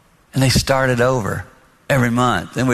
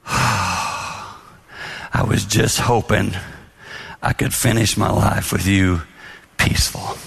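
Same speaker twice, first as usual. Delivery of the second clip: sad wife; 5 semitones lower, slower than usual. Retold or imitated. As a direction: let it fade to a near whisper on peaceful. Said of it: "She's crying a little bit".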